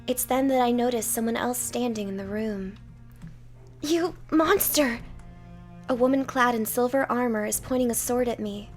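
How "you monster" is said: angry knight. Acted. Knight confronts awakened monster.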